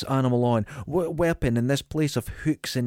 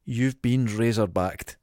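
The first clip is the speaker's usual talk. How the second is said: slow dramatic tagline; 3 semitones lower, slower than usual. Shown as a demonstration. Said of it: "but I put".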